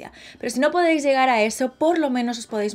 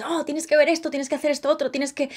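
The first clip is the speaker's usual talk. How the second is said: gushing tourist advice; 4 semitones higher than usual. Retold or imitated. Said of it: "lo único que te sale decir".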